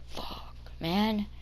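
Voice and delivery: very soft retold curse; muted dismay. Kid dropped off at school, muted retold dismay. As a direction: swear quietly to yourself.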